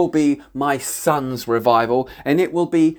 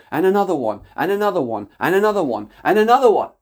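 building proclamation; 3 semitones higher, much faster than usual. Real, not acted. Prophecy builds to a cry.

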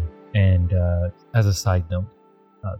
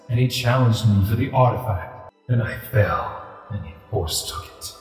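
deep rumbling voice. Acted. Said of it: "a deep rumbling voice emanates from this ghostly tiger".

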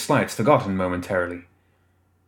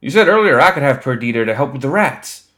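higher, louder wounded protest; indignant protest; 5 semitones higher, 6 dB louder than usual. A narrator's reading. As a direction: protest the broken promise loudly. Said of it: "Colin choked".

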